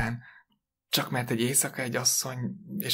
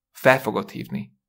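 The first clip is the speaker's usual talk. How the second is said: firm insistence, a little louder; raised voice; 5 dB louder than usual. Acted. Wife insists that husband phone the captain, mildly raised voice. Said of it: "Ne kiabálj".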